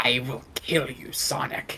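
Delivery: breathy, evil, menacing whispered villain voice. Describing how the original Eggman sounds: evil Eggman voice. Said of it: "He sounds very evil".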